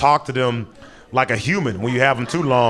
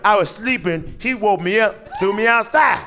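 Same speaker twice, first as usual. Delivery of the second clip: rising, high whining victim; whiny high roommate; 7 semitones higher than usual. Retold or imitated. Drunk roommate whines to the cop, rising high. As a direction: play the wronged innocent, climbing higher.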